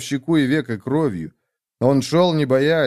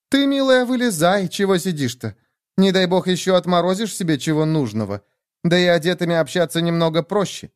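put-on high-pitched, bossy young woman; brash, bossy Nastya; 6 semitones higher than usual. Nastya tells the stranger to climb out, bossy. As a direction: order her out in a high, lively voice.

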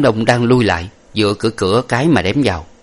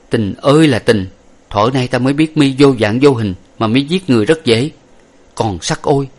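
higher anguished lament to an absent love; young hero lamenting his beloved Lệ Thủy, higher; hero's lament; 4 semitones higher than usual. Acted. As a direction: pour out grief and regret.

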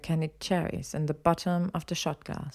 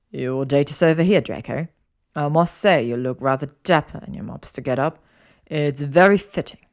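slightly lowered man's voice; a hint of a suave male friend; lightly voiced Blaise, teasing; 2 semitones lower, 4 dB louder than usual.

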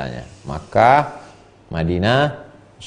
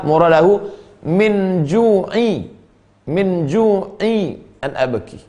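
high, slow, drawn-out recitation; sheikh's meaning; 8 semitones higher, much slower than usual. Acted. Preacher voices the sheikh's real meaning, high and slow. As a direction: savor each word slowly.

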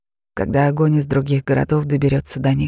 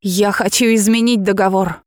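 defiant demand; 4 semitones higher than usual. Acted. Girl demands from dragon.

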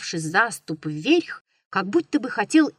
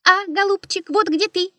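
much higher squeaky echo; mocking bird's squeal; squeaking bird beak; 10 semitones higher than usual. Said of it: "запищал птичий нос".

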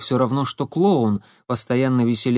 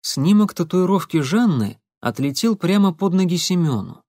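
ordinary delivery

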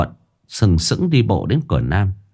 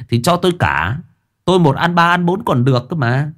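high, lewd boasting; leering rogue voice; 7 semitones higher than usual. Acted. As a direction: brag like a lecher. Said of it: "cười dâm tiện".

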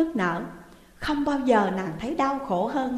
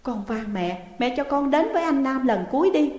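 pleading; 4 semitones higher than usual. Acted. Daughter begging mother to let her see Nam. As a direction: beg mother earnestly. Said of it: "Nàng năn nỉ mẹ".

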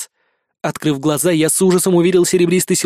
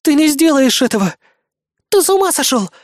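exclaiming; 9 semitones higher than usual. Acted. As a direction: cry it out high in alarm. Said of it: "воскликнула Бисмарк".

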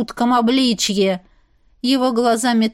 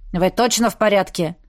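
conciliatory; 3 semitones lower than usual. A narrator's reading. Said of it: "уже более примирительно".

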